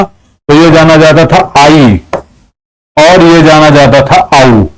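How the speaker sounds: आई and आऊ stretched as two vowel sounds; vedic pronunciation. Shown as a demonstration. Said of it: "किस रूप में जाना जाता था". (आई और आऊ को अलग-अलग खींचकर)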